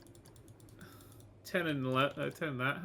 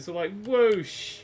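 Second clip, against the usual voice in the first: slow whoosh; 5 semitones higher, 5 dB louder, much slower than usual. Shown as a demonstration. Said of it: "You go out this bit".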